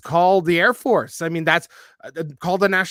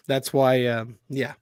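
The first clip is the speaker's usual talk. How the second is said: ordinary talk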